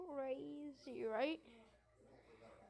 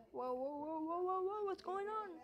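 rising panic; 4 semitones higher than usual. Real, not acted. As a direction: panic building. Helicopter losing control.

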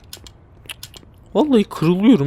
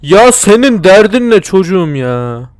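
loud, higher exasperated yell; frustrated yell; 5 semitones higher, 7 dB louder than usual. Real, not acted. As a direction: shout at it in disbelief. Yelling at enemy that won't explode.

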